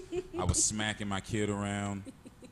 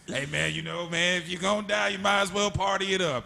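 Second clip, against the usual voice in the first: mock old black dude; 6 semitones higher, 3 dB louder than usual. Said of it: "he was like".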